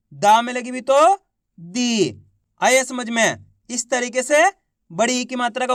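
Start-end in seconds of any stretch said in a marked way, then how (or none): 1.6-2.2 दी held long, sliding down; drawn-out long ī. Shown as a demonstration. Teacher reading syllables for class to copy, drawn out. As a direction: stretch out दी. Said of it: "खींच के पढ़ेंगे".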